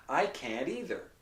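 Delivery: "can't either" joined by a quick tap; flapped T. Shown as a demonstration. Teacher showing the example, "can't" with a flap. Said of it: "this, a tap or a flap".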